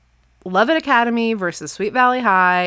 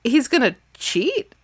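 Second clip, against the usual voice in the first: shocked friends; 6 semitones higher than usual. Retold or imitated. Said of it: "They're all like".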